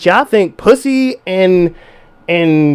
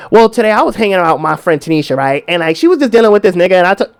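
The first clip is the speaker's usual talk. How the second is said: put-on gossipy girlfriend; 3 semitones lower, faster than usual.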